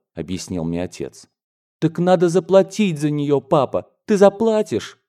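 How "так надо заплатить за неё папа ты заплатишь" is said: put-on high, urgent childlike appeal; pleading child. A narrator's reading. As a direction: beg papa hopefully, pitch leaping up. Child begs father to pay.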